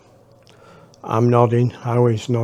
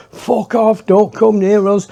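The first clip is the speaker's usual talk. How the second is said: shouting; 7 semitones higher than usual. Retold or imitated. Narrator yells at the approaching man, high-pitched warning. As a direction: yell him away, high and scared. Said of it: "and I was going".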